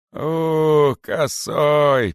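loud, high menacing call; threatening. A narrator's reading. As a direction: threaten him. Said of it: "пригрозил царь". (угрожающе)

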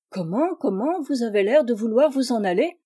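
a touch of surprised protest as guests rise; surprised exclamation. Acted. Pélagie protesting her guests are leaving, mildly surprised. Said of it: "s'écria Pélagie".

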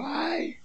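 small, high, soft "ay" of complaint; mock wail. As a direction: imitate someone wailing, kept small and high. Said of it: "Sale chillando".

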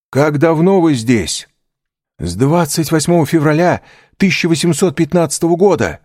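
two captives trading urgent questions; voiced prisoners' dialogue. A narrator's reading.

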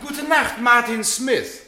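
high, slow, sing-song sneer; husband taunting the departing actor; mocking farewell. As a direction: draw out the name to humiliate him. Husband mocks actor's old stage name.

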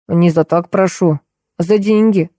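ordinary delivery, nothing marked

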